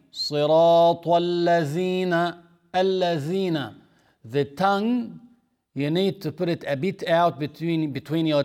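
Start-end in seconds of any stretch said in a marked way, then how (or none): 0.1-3.8 Quran verse recited in Arabic; recitation example. Shown as a demonstration. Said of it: "instead of saying".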